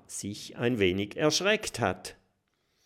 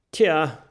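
sighed tja; 6 semitones higher, 9 dB louder than usual. A narrator's reading. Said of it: "seufzt Willi".

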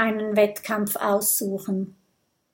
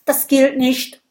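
calling out; 4 semitones higher, 5 dB louder than usual. Acted. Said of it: "ruft Gudröd".

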